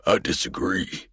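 dry, defiant colonel voice; colonel's retort. A narrator's reading. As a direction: throw it back at her, unbowed. Colonel answers Caroline.

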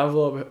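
"envelope" starting AHN, like "on"; ON pronunciation. Shown as a demonstration. Doubting it is English, "envelope" opening with ON. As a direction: say "envelope" as ON-velope. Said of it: "I don't know if that's, like, English".

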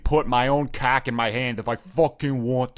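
put-on slight New Jersey accent; a touch of Jersey. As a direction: let a hint of Jersey slip in. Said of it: "Now you sound a little more Jersey there".

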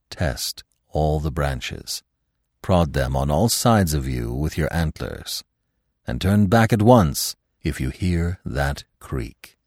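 lightly voiced old stag, low and measured; old stag, cautioning. Old stag advising Bambi in story.

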